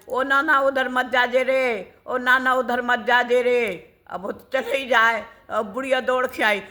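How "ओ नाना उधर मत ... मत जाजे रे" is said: put-on old woman calling after the boy, mildly raised; old woman shouting to the boy not to go near her clothes. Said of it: "तो बुढ़िया चिल्लाई".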